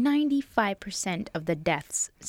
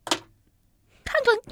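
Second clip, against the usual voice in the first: wrong sound imitation; 4 dB louder than usual. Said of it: "that wasn't right".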